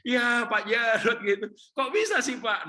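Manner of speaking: high, loud mock disbelief; acted amazement. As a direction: exclaim in comic astonishment. Acted amazed reaction of a listener.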